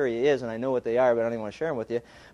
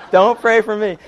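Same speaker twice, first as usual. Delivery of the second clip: louder, higher "Don't pray for me"; emphatic refusal; 5 semitones higher, 8 dB louder than usual. Retold or imitated. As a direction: push the refusal out hard. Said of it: "This guy".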